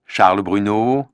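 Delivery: normal talking voice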